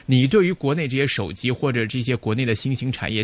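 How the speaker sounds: usual speaking voice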